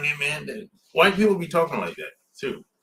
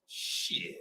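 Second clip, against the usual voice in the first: whispered curse; 14 dB quieter than usual. Real, not acted. Aside after diverse remark.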